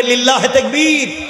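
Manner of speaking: high, slow rallying shout; takbir call. Real, not acted. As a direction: call out to the crowd at full voice. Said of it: "একটু আওয়াজ করে একটা তাকবীর দে".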